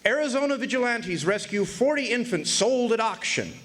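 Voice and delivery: a touch of a newsboy's headline; headline read. Retold or imitated. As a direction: read it out like a front-page banner. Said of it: "read another".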